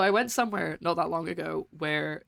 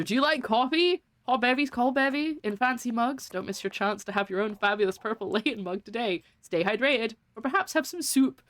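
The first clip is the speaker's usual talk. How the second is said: lilting, higher-pitched ad pitch; mock sponsor read; 6 semitones higher than usual. Streamer segues into the sponsor plug for mugs, mock ad read. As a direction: sell it like a cheery commercial.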